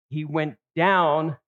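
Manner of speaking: down drawn out slowly and leaned on; slow, weighty "He went down"; stress on down. Shown as a demonstration. Preacher reading Jonah's descent aloud, slow and stressed. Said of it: "He keeps making this descent".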